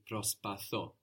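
προσπαθώ with the accent on θώ; stress on the end. Shown as a demonstration. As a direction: stress the final syllable of προσπαθώ. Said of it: "the accent coming on the end".

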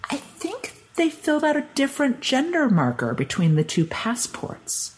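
high voice, fading at the end; tentative official. Retold or imitated. Official gingerly reveals the mistake.

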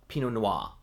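"Pinot Noir" ending in an open wah, no R; dropped R. Retold or imitated. Quoting a coworker bartender, "Noir" with the R dropped. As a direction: say "Noir" as nwah. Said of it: "where she says".

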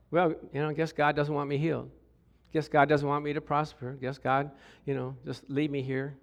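low, soft self-pity; hammed-up resigned believer; mock resignation. Mimics believers resignedly blaming God.

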